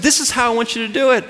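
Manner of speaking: imitated brisk, insistent command; forceful. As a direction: rattle off a firm order as the strict teacher. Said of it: "he's forceful about it".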